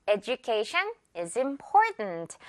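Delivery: "Education" said eh-joo-KAY-shun, slowly; j sound in education. Shown as a demonstration. Teacher modelling the example sentence, j sound. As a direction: stretch "Education" out with a j for the d. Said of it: "edu 아니고 주라는 거".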